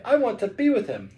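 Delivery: high-pitched daughter's plea; pleading cry. A narrator's reading. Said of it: "she cried".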